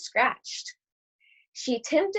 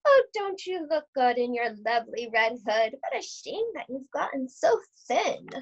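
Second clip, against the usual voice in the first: higher, sugary fake grandma voice; a wolf pretending to be sweet old Gran; wolf in disguise calling the girl in, higher put-on granny voice; wolf faking granny; 3 semitones higher than usual. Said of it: "He called out".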